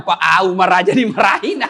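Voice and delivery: mock shout through laughter; laughing exclamation. Companion tells his friend that even Umar gets scolded, laughing. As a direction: blurt it out, half laughing. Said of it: "Balik dia bilang".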